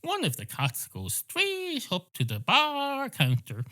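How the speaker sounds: slow, swooping storyteller voice; traditional storytelling. Acted. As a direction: draw out the stock bar story. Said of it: "the type where he goes".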